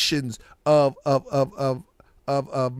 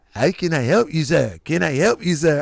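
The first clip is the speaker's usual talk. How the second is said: cartoon Mexican accent, bouncing pitch; mock sing-song Mexican accent; Speedy Gonzalez. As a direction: imitate an expected thick Mexican accent. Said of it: "expecting him to sound like Speedy Gonzalez".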